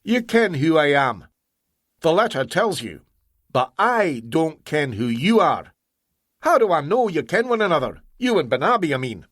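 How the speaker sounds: suspicious Scottish engineer; Scottish accent. Acted. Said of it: "phony accent".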